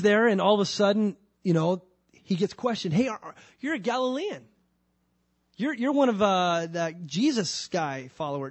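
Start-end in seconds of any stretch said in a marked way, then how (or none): 2.9-8.5 suspicious accuser. Acted. Accuser questions Peter.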